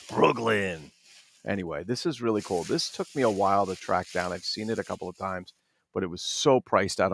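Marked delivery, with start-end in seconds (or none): 0.1-0.9 drawn-out Brooklyn with a hard g; mafia Brooklyn accent. Acted. Collector imitating mafia films for viewers, thick Brooklyn accent. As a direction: say it like a mob movie Brooklynite. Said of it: "with those accents".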